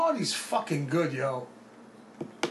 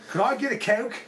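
higher mock English accent; 4 semitones higher than usual. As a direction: put on a quick English accent. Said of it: "Do an English accent".

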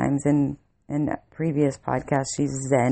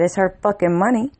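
higher, sharp retort thrown at the clerk; retold angry snap; 5 semitones higher, 3 dB louder than usual. To the rude store clerk over girlfriend's card, retold anger. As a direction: bite off the words like you're fed up.

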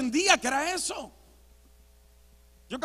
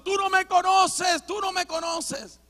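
high-pitched, restrained mock yell; retold yelling; 6 semitones higher than usual. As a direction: keep yelling it, without full volume. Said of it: "yo seguía gritando". (grito recreado, agudo y contenido)

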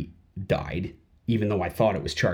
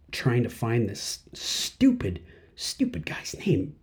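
whisper; 5 dB quieter, slower than usual. Real, not acted. Muttering while searching online.

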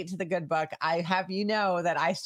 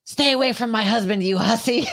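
mock jealous wife; 5 semitones higher, 4 dB louder than usual. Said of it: "I'm like".

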